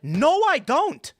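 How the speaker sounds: very high, loud, drawn-out protest; exasperated retold denial. Californian host contradicting his guest, exasperated. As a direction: imitate baffled insistence, stretching it slowly up high.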